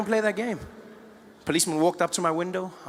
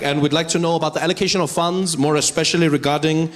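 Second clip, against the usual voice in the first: a hint of a polished South African Model C accent; mock Maimane's polished Model C English accent; lightly done Model C English accent; 3 dB louder than usual. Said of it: "Model C English accent".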